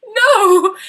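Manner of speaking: high, loud no, breaking into a sob; sobbing. Acted. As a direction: cry it out through tears. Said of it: "sobbed Laura".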